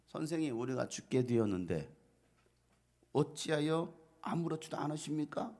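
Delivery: a touch of pleading protest; disciples' reproachful plea. Acted. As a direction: plead with the teacher, mildly reproachful. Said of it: "제자들이 예수님께 한마디예요".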